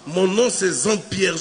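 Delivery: slow singsong Jean-Pierre, lisped; slushy lisp. Retold or imitated. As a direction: insist slowly, lisping Jean-Pierre. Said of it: "tu zozotes". (Jean-Pierre zozoté, lent et chantant)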